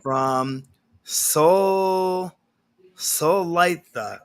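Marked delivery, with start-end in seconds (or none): 3.0-4.2 "Solaitha" said slowly, syllable by syllable, unsure of the name; careful name pronunciation. Real, not acted. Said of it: "I hope I said that right".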